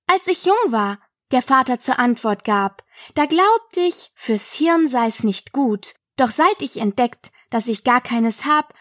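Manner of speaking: lilting, measured verse; poem recitation. Acted. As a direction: recite it line by line in rhythm.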